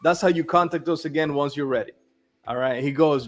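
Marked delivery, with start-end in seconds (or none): 0.0-1.9 calm and even. Retold or imitated. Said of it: "I kept the same tonality".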